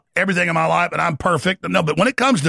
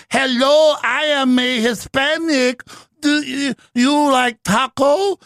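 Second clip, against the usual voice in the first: mock Hispanic accent; 7 semitones higher, much slower than usual. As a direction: lay on a slow, exaggerated Hispanic accent. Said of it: "in front of a group of Hispanics in L A and she goes".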